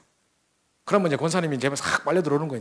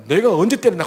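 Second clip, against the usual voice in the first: louder, gruff challenge back; mock defiant retort; 5 semitones higher, 7 dB louder than usual. Husband snapping back at wife: louder defiant retort. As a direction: throw the question back daring her.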